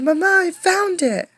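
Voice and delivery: high, loud cry of discovery; joyful shout. Acted. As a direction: shout it out, thrilled. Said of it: "Irene shouted".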